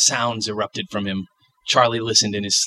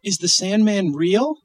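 put-on child voice; 10 semitones higher than usual.

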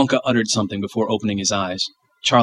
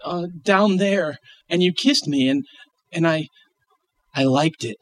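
put-on child voice; 7 semitones higher than usual. Child voice, hesitant.

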